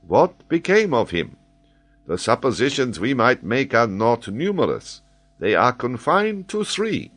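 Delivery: an excitable scholar holding forth; high, animated geographer explaining; Paganel, eager learned Frenchman. Acted.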